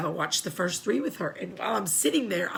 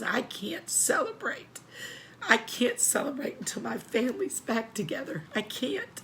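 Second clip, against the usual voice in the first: imitating a tearful grandmother, higher and softer; grieving grandmother; 4 semitones higher, 5 dB quieter than usual. Grandmother refusing a Christmas toast until family's together, grieving. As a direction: voice a heartbroken refusal, breath giving out.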